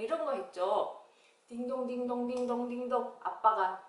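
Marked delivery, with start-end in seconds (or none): 1.5-3.2 level, even ding-dong chime; imitated doorbell. Teacher setting up the door scene, imitated doorbell. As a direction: chant it softly like a repeating doorbell.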